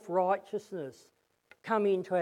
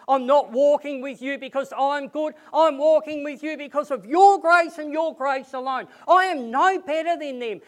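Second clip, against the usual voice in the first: humble prayer; 2 semitones higher than usual. Retold or imitated. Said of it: "come back and say".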